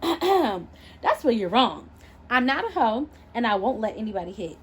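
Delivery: defiant retort. Acted. Narrator defiant reply to insult.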